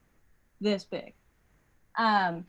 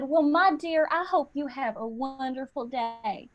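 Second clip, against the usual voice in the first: put-on cashier's Southern accent, trailing softer; imitated Southern accent; 3 semitones higher, 3 dB quieter than usual. Cashier to customer at grocery checkout, imitated Southern accent. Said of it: "had an accent".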